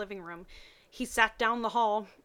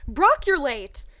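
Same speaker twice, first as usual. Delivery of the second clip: mock scolding; 5 semitones higher, 11 dB louder, slower than usual. Misty scolding Brock.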